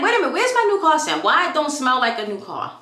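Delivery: high, puzzled, wait a minute; the alarmed buyer suddenly misses something; surprised. Retold or imitated. To the salesman, noticing no new car smell, high and surprised. Asking the salesman where's the scent.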